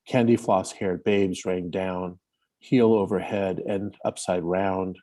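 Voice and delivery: slow, measured reading of her own verse; poem reading. Acted. Sharing her Trump poem with the writers, slow recital. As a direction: give each image its weight, unhurried.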